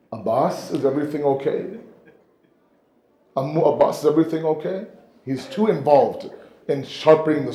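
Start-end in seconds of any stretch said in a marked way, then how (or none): 0.1-4.9 much softer, gentle and timid; hushed worried question. Acted. Little Sakina to her uncle, hushed and worried. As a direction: ask softly, a little girl afraid to disturb him.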